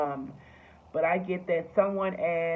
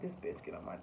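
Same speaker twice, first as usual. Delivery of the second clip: much lower and softer, under the breath; low irritated mutter; annoyed mutter; 13 semitones lower, 14 dB quieter, faster than usual. Retold or imitated. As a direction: grumble it to yourself about an annoying mom. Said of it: "and you just like".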